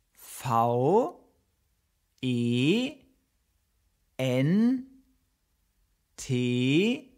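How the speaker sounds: V E N T I L A T O R, one letter at a time with pauses; spelling it out. Shown as a demonstration. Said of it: "teacher spells Ventilator". (Ventilator langsam buchstabiert)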